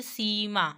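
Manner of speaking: सीमा with a long, held "ee"; teacher drawing out the ee in सीमा; long vowel. Shown as a demonstration. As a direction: stretch the first vowel of सीमा. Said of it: "ये पूरा long खींचा जा रहा है".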